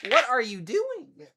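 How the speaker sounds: high, drawn-out pet-voice exclaiming; pet talk. Real, not acted. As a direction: exclaim at the wild cat in a high voice. Cat jumping on him.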